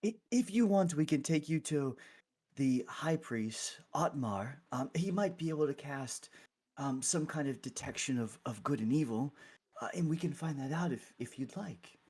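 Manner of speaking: lightly voiced, tentative cleric; helpful clergy member. Clergy member offers help.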